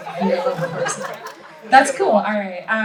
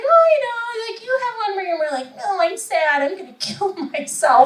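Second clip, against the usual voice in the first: higher, lightly sing-song mock doctor voice; doctor's silly voice; 9 semitones higher than usual. Doctor imitates a sad patient, high mock voice. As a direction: do the doctor putting on a voice. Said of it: "she said it, like, in that voice".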